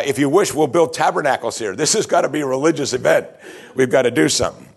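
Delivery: a touch of hammed-up panic; mock panic. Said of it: "Peter panics".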